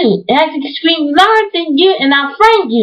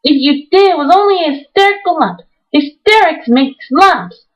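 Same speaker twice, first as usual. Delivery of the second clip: high, fierce scolding; 3 semitones higher than usual. Acted. Mary fiercely scolding frightened Colin. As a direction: bite into each word fiercely.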